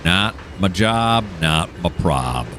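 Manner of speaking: slow, shrugging brush-off; flippant retort. Pretend. Shrugging off the platform gaps to viewers, slow flippant brush-off. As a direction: toss it away like it's not your problem. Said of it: "To which I answer".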